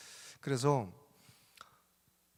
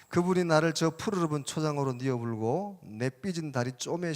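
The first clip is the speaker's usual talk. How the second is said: put-on lively, higher-pitched Jeolla-accented recitation; Jeolla dialect; 4 semitones higher, 5 dB louder than usual. Preacher entertains listeners with a parody psalm, in Jeolla dialect. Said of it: "전라도 버전".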